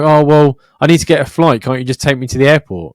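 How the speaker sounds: mock-needy passenger making excuses; retold pleading. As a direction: plead for a lift, lightly acted.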